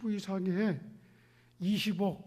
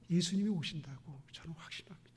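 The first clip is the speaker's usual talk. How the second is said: whispered conviction; 3 semitones lower, 5 dB quieter than usual. Shown as a demonstration.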